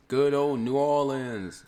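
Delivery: loud, drawn-out hype call; city shout-out. Pretend. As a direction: holler it long to the crowd. Hump day city shout-outs.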